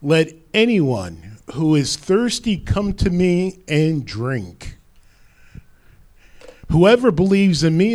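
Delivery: deliberate, mildly projected call to all; mild loud proclamation. Retold or imitated. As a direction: imitate a public proclamation without shouting. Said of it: "said in a loud voice".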